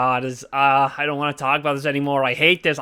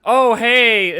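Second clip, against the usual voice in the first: high, louder perky horse; 8 semitones higher, 7 dB louder than usual. Retold or imitated. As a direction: chirp it like a cartoon horse. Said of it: "is just like".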